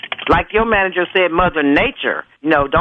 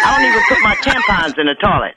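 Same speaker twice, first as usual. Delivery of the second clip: angry; 2 semitones higher than usual. Real, not acted. Heated prank call argument.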